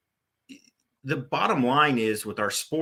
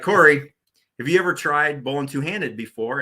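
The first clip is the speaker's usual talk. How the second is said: a louder, half-hearted Australian accent imitating a coach, Corey punched high; mock Australian accent; 3 semitones higher, 4 dB louder than usual. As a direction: imitate the Aussie pro lightly in an Australian accent, starting with a loud, high "Corey". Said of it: "I can't speak Australian with the accent".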